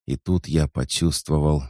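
plain reading voice

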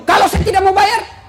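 high, shouted challenge; mock angry defiance. Husband refusing to pay the PLN man, mock angry. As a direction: fire back as an irate husband. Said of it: "suaminya marah-marah sama P L N".

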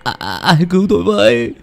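high, loud, fast panicked pleading; desperate screaming. Acted. Pinned-down son shrieks that he killed no one, high and fast. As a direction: beg for your life, frantic.

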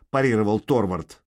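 ordinary delivery

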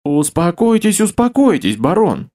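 high, pleading fat man's voice; pleading babble. Acted. Fat man pleading with the baron, high anxious babble. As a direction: babble anxiously, begging him to calm down. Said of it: "умоляюще пролепетал толстяк".

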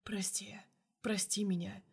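soft, voiceless plea for forgiveness; whispered apology. A narrator's reading. Boss begs his secretary's forgiveness in a whisper. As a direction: whisper it, close and sorry.

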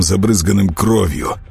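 plain reading voice

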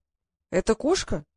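put-on slow, odd old man's voice, mildly surprised. A narrator's reading. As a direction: ask slowly as a puzzled frail old man. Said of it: "удивлённо спросил старик странным голосом". (удивлённый старик со странным голосом)

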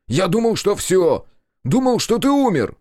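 high, overwrought yell; distraught shouting. A narrator's reading. Narrator to the brother he believed dead, distraught shout. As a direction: let it burst out, upset. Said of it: "сорвался на крик я".

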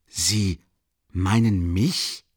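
slow, halting disbelief; stammering. Acted. Accused man caught off guard, stammering slowly. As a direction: drag the words out, caught off guard. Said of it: "begann er stotternd".

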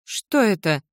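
startled question with falling tune; surprised. Acted. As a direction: ask it in mild alarm. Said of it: "удивилась Мара". (удивлённо)

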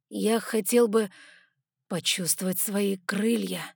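slow, pensive voice; musing to himself; thoughtful. Acted. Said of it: "задумчиво проговорил он".

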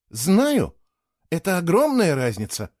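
a touch of eager exclaiming; exclaimed. A narrator's reading. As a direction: burst out in agreement. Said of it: "воскликнула Кейла".

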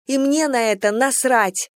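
high defiant shout; girl defiantly yelling at the general. A narrator's reading. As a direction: fling it at him. Venka keeps shouting.

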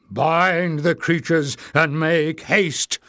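slow, loud commanding order; commanding goblin. Acted. Goblin priest to his guards, commanding slowly. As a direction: give the order like a goblin chief. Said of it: "ordered a new voice".

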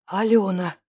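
Алёна breathed out on a sigh. Acted. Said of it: "выдохнул я".

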